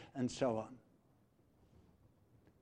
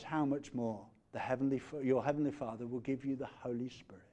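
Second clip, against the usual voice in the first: hushed, whispered promise; 6 dB quieter than usual. Real, not acted. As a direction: drop to a whisper to draw them in. Intimate climax of sermon.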